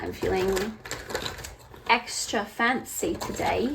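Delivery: slow, mock-posh put-on accent; fancy put-on accent. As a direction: play a fancy lady with a vague accent. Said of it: "I don't know what that accent was".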